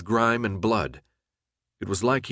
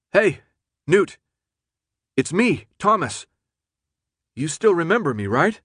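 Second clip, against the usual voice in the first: high, raised call to a friend; 8 semitones higher, 5 dB louder than usual. A narrator's reading. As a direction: call out, hoping to be recognised. Calling carefully to his maddened friend.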